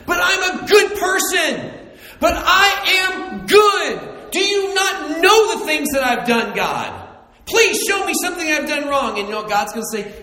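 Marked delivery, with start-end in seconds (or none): 0.0-9.2 high, loud self-righteous pleading; a good person demanding proof from God; indignant protest. Retold or imitated. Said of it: "somebody who's like".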